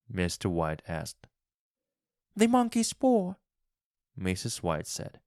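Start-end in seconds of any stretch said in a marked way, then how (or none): 2.4-3.4 much higher, begging wife; pleading wife. A narrator's reading. Wife begs husband for the paw, high and pleading. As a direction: plead for it desperately. Wife's feverish voice.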